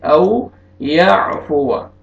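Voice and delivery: औ याफुवा drawn out very slowly, the extra alif left silent; slow demo of औ याफुवा, silent alif. Shown as a demonstration. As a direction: stretch औ याफुवा slowly without reading the alif. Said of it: "इसको कैसे पढ़ेंगे?".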